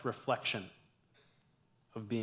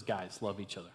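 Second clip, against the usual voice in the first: soft, lowered, simple instruction; quieting them down; 5 semitones lower, 7 dB quieter than usual. Acted. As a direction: hush the group gently, voice dropped. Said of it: "quiets them down".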